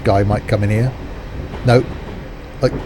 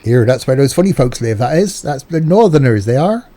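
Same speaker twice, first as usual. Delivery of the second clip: mock Northern accent. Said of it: "I don't know what accent that was".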